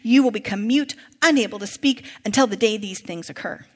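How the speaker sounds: measured public Bible reading; projected, story-like scripture narration. A narrator's reading. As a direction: read the passage out clearly to a congregation. Reads scripture aloud to congregation.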